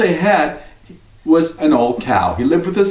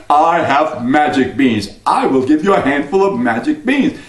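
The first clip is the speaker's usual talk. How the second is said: sly stranger. Acted. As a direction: tempt him with the beans. Stranger offers beans.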